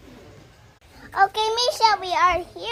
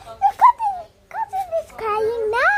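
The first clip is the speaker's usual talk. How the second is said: urgent high plea; 8 semitones higher than usual. Real, not acted. Urging the pet, pitch spikes.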